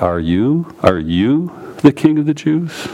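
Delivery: emphatic "you", voice lifting on it; "you" singled out with a rising pitch; stress on YOU. Shown as a demonstration. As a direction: lean on the word "you" in the question. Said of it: "the you is emphatic".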